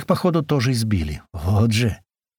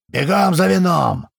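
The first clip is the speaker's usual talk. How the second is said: put-on a drunk master roaring for wine; furious shout; 7 semitones higher, 4 dB louder, slower than usual. A narrator's reading. Drunk master yelling at slaves for wine, loud slow shout. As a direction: bellow the order across the yard, slow.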